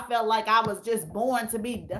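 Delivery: fighting back real tears; real crying on a live video. Real, not acted. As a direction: voice breaking into tears. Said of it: "the live where I'm on here crying".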